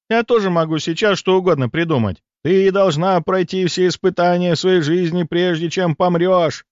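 lightly voiced sinister fortune teller. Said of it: "изобразив цыганку".

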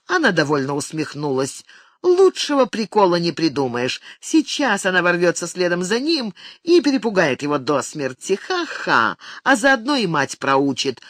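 plain reading voice

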